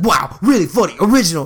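imitating a miffed, sarcastic friend; mock-sarcastic, unimpressed comeback; mock upset. Mimicking a friend upset at being teased, mock sarcastic. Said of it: "I don't know if he's upset".

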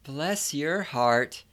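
sugary Southern condescension; softly patronising Southern woman; insult as compliment. Acted. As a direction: scold sweetly, slowing right down at the end. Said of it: "best insults sound like compliments".

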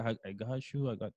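"I got you" said with Spanish sounds, a flat Spanish I; Spanish-accented English. Shown as a demonstration. Showing a friend how learners say "I got you" the Spanish way. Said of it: "tú la pronuncias como español".

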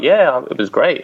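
slow, lightly Americanised reply; imitated American accent. Returning teacher replying to Birmingham friends, slight American accent. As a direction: answer with a drawn-out touch of American. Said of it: "look at you with the American accent".

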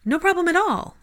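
high-pitched, reassuring hostess; welcoming. Acted. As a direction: wave away the apology in a high, friendly voice. Hostess welcoming late guests.

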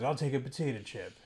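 mock overacted anime dub line; Light Yagami. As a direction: lightly imitate an overacting voice actor. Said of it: "he does nothing but overacting".

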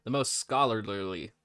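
stumbling through peanut butter; mouth full of peanut butter. Real, not acted. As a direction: mouth full, tongue tripping. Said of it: "I have peanut butter in my mouth".

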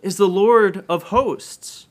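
seraphim crying out. A narrator's reading. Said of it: "He heard the seraphim cry out".

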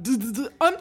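teasing imitation of a stubborn husband; mocking dopey husband. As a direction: play him as a clueless guy brushing it off. Mocking husband who claims he's warm.

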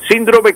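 accent the I in síndrome: SÍN-dro-me; stress on first syllable. Shown as a demonstration. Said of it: "con tilde en la I".

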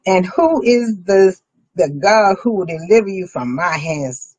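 slow, emphatic royal challenge; slow king's challenge. Acted. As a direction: read the king's dare slowly and heavily. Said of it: "he says".

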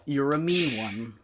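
slow, deadpan poem reading; monotone recital. Shown as a demonstration. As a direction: read the lyrics flat and slow. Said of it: "I'm gonna say it in a monotone tone".

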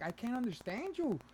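high, slow, drawn-out complaint; mock exasperation. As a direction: spell out your frustration slowly. Retold exasperated reply to caller.

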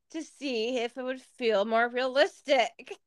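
giggling through the words; laughing embarrassed. Real, not acted. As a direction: laugh while you confess. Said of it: "this is so fucking embarrassing".

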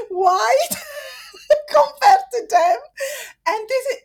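high, loud sob-laden cry. Real, not acted. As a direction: break down while making the point. Crying out about father's family.

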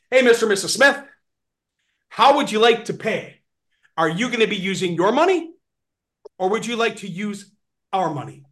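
friendly rep asking how they'll pay; sales pitch demo. Shown as a demonstration. Trainer showing reps how to ask the customer. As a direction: sell it like a confident rep at the counter. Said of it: "Here's all that they need to say. Ready?".

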